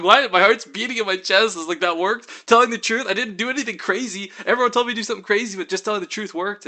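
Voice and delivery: loud, high-pitched astonishment; amazed disbelief. Retold or imitated. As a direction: relive it, stunned that it actually worked. Retelling disbelief at being excused.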